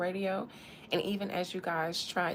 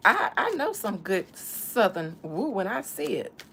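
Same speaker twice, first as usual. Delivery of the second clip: louder emphatic take; 5 dB louder than usual. Pretend.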